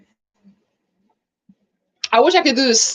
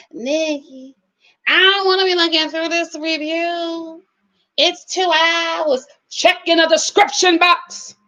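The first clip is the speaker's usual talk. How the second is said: lightly voiced grumbling viewer; complaining viewer; 3 semitones higher, slower than usual. Vlogger mimicking viewers who ask about timestamps, complaining. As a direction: imitate a viewer's drawn-out complaint.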